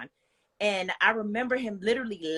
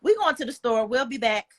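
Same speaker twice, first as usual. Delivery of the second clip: a touch of firm friend; 4 semitones higher than usual. Retold or imitated. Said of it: "She looked at him and was like".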